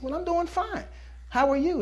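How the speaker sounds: excited customer. Acted. Customers answering the bird.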